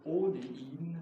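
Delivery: measured German poetry recital, slow on key lines; slow reading of a German poem. Acted. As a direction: read it like your own poem at a reading. Poet reads own German poem.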